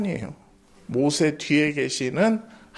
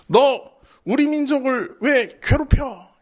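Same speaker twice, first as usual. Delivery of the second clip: angry Moses; 6 semitones higher than usual. Acted. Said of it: "모세가 열받았어".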